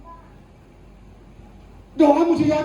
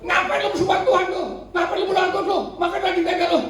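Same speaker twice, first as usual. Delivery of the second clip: mocking laugh; 6 semitones higher, faster than usual. Mocking scoffers voiced.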